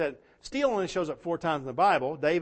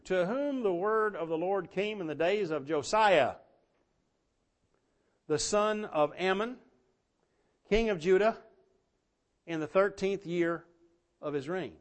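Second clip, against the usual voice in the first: scripture reading; 4 semitones higher than usual. Acted. Reads Jeremiah chapter one.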